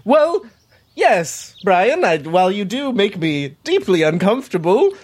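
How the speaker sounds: high, hesitant yes; a flustered official caught off guard; nervous stammer. Acted. GM's character nervously answering Brian, high and hesitant.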